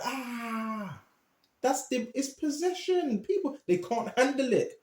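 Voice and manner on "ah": retold cry. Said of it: "he was going".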